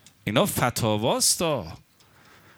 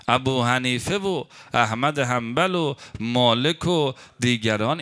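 ordinary talk, nothing marked

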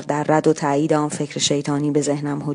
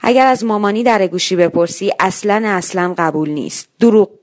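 put-on child shouting; 3 semitones higher, 4 dB louder than usual. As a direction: shout down the hall, building to a sharp دروغ. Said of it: "فریاد زد".

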